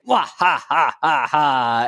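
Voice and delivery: hammed-up villain cackle; evil laugh. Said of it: "let's do our evil laugh".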